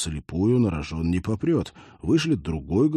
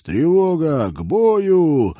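loud, high sergeant's bark; barked alarm; 9 semitones higher, 8 dB louder, much slower than usual. Acted. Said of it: "гаркнуть".

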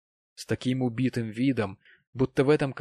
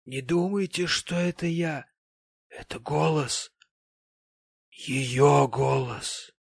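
high, portentous sentimental gentleman; slow to a loud, drawn-out final line; maudlin tipsy gentleman; 4 semitones higher, 3 dB louder, slower than usual. Acted. Voices maudlin Mr Pecksniff.

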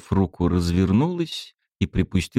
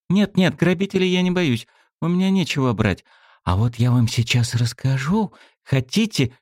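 voiced young girl; 6 semitones higher than usual. A narrator's reading.

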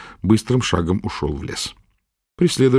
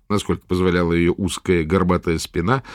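ordinary delivery, nothing marked

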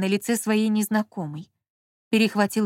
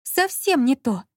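slow, higher, moaning plea; 5 semitones higher, slower than usual. A narrator's reading. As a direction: moan it out helplessly. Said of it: "простонала Марина". (простонала, медленно)

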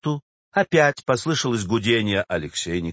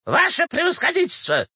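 very high, wailing appeal; distraught old woman. A narrator's reading. Old woman rushes to the official, distraught. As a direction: cry out for help to a superior. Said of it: "бросилась Кистунову Щукина".

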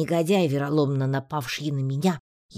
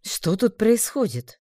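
slow, higher commanding stranger; stern newcomer; 8 semitones higher, 4 dB louder, slower than usual. A narrator's reading. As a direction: demand it from the doorway, slowly. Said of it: "новый незнакомый голос".

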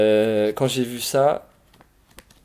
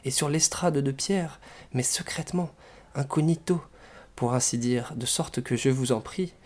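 expressive, lively read-aloud with animated dialogue; story narration; 2 semitones higher, 3 dB louder than usual. A narrator's reading. Reader sharing a comic Russian novel, expressive storytelling. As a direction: read the novel out with theatrical phrasing.

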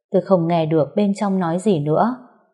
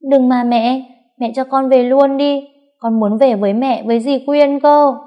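put-on high, loud sobbing child begging; crying plea; 6 semitones higher, 5 dB louder than usual. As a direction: plead through sobs. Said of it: "vẫn chưa ngừng khóc". (bé khóc lóc van nài mẹ)

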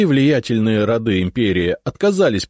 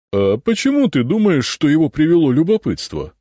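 higher, louder challenging retort; objecting; 9 semitones higher, 6 dB louder than usual. Acted. Right head arguing with the left head, objecting. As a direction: push back on the other head. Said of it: "возразила правая голова".

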